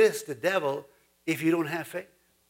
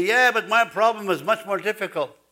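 higher, louder whining complaint about a big problem; complaining believer; 3 semitones higher, 4 dB louder than usual. Retold or imitated. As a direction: play the worried churchgoer grumbling that it's too hard. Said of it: "You may say".

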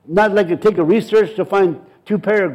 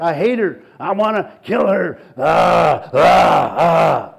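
demon voice; 4 semitones lower, slower than usual. Retold or imitated. Demon speaking through the woman.

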